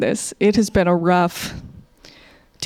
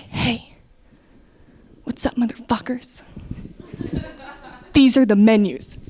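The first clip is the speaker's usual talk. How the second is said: indifferent Dutch server. Acted. Server to a table in the Netherlands, unhurried and aloof. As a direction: take your time, you don't need these customers. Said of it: "Whereas in the Netherlands, as a server".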